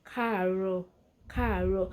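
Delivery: casual form "káàárọ̀", dropping the "ẹ"; casual Yoruba greeting. Shown as a demonstration. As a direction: teach "káàárọ̀" plainly for learners. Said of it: "Then the casual way".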